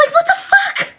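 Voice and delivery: what the fuck, squeaked way up through a laugh; can't believe it, laughing; laughing disbelief. Real, not acted. Laughing disbelief at oppression claims.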